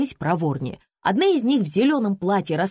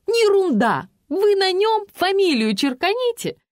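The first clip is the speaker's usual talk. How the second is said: high, louder pushy fan voice; insistent fan aunt; 14 semitones higher, 6 dB louder than usual. Acted. Fan aunt cutting off the writer, high and loud.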